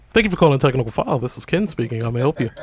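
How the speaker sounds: low, even work phone voice; customer service voice. Shown as a demonstration. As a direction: answer the phone politely. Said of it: "Call me".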